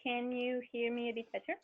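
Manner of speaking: muffled, as if through a pillow underwater; bad headset, dull and smothered. Real, not acted. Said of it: "Nope, not yet".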